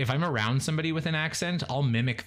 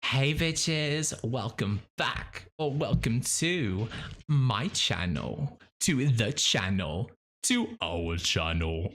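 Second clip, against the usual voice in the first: Miss Ditch impression; much slower than usual. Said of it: "Miss Ditch, do me".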